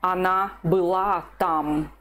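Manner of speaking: Она была там said slowly with была stressed; slow model answer. Shown as a demonstration. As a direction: say it slowly for the learner. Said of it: "What about this one?".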